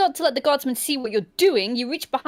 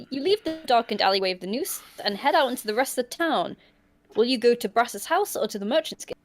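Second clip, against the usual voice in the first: story narration; faster than usual. A narrator's reading. Reads gamebook scene aloud.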